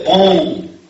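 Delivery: "봉" drawn out slowly as the nasal vowel of bonjour; nasal French vowel. Shown as a demonstration. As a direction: hold the French nasal "봉" through the nose. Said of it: "요게 콧소리거든요".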